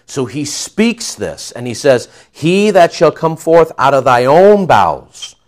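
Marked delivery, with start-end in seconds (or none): 2.3-5.4 loud, high, ringing declaration; proclaiming God's promise. Acted. Preacher proclaiming God's promise to Abram. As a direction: announce the impossible promise with force.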